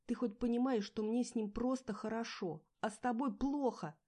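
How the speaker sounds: high, loud yell; loud desperate yelling. A narrator's reading. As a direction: scream it in his face. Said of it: "заорала я".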